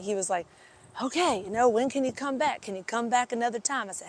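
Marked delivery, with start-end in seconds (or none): 1.0-3.9 imitating an eager rancher, higher pitched; lightly acted keen request, pitched up; retold excitement. Rancher asking the chiropractor to come back, mock excited. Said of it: "excited to pay me".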